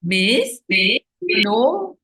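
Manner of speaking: loud whiny call to the teacher; tattletale calling out. Retold or imitated. Boy tattling to the teacher, loud whiny call.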